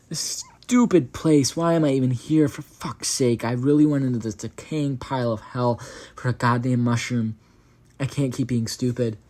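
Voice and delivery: frustrated angry outburst. A narrator's reading. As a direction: vent your anger loudly at nothing. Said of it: "I said angrily".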